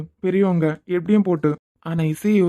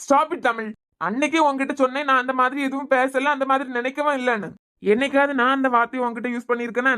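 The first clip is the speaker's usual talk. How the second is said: raised, higher pitched insistence; angry protest; 5 semitones higher than usual. Acted. Husband to wife, denying he said it, raised angry voice. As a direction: push back hard at her accusation. Husband defends himself in quarrel.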